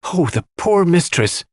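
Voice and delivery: put-on high, slow lament of an old maid; distressed wail. A narrator's reading. Dorcas laments her mistress, high and slow.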